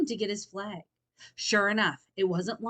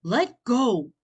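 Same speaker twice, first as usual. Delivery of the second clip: sharp demand; 4 semitones higher, 10 dB louder than usual. Acted. Tug of war.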